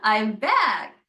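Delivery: Venus/character; delighted Venus showing off. Acted. Venus returns with her planet entourage, playfully thrilled. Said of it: "Like, she's got".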